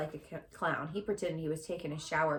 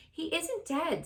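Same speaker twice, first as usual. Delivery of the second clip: protesting; 10 semitones higher, slower than usual. Acted. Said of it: "said Zuckerman".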